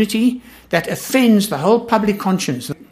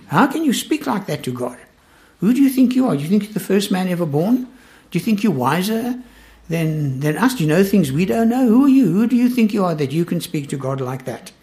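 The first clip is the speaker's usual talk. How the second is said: outraged Eliphaz. Retold or imitated. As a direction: scold like an indignant old friend. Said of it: "That's the tone of Eliphaz's speech".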